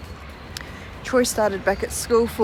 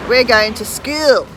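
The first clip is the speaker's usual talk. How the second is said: Aussie way; 5 dB louder than usual. Shown as a demonstration. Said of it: "they'd say".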